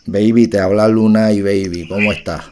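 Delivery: low, smooth fake of a singer; impression of a singer. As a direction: purr it like the singer calling a fan. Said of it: "Esa no es la voz de Lunay".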